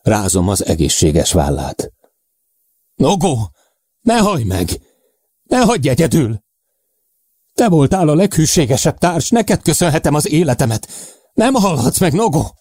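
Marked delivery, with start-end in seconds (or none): 3.0-12.5 high-pitched frantic plea at moderate volume; despairing cry, acted; desperate shouting. A narrator's reading. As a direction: beg a dying friend to stay, pitch held high. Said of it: "Akaratlanul földi nyelven kiabálok".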